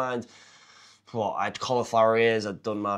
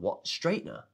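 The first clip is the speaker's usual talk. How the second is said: high, rising disbelief on Straightener; incredulous; 7 semitones higher, 4 dB quieter than usual. Retold or imitated. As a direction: throw Straightener back as a baffled question. Retold reaction to fight offer.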